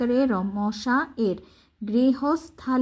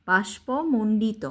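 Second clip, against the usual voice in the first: slow careful word; slower than usual. Shown as a demonstration. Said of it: "তারপর রস্যিকার দেওয়াতে মন্ডি".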